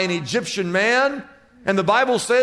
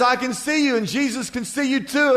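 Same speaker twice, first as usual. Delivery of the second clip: parrot voice; 3 semitones higher than usual. Acted. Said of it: "The parrot says".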